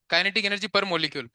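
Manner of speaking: slow, spaced-out dictation pace; dictating each word slowly. Shown as a demonstration. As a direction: say it slowly so they can write it down. Teacher dictating definition slowly.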